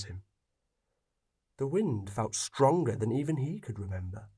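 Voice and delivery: steady storyteller reading; calm story read aloud; story narration. A narrator's reading. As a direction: tell it like a fireside tale.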